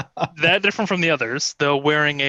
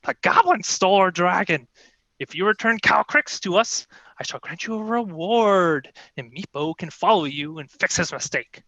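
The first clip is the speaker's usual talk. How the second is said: a touch higher, scornful kobold queen; lightly voiced haughty queen; 4 semitones higher than usual. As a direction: scold the servant with royal disdain. Queen commands the party.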